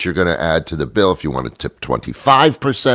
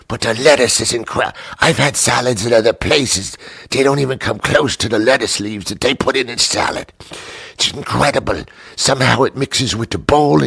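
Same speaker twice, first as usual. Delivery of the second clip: higher, gushing sales pitch; gushing waitress; 5 semitones higher than usual. Retold or imitated. Waitress Susan praising the salad, high and gushing. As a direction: rave like an overeager waitress.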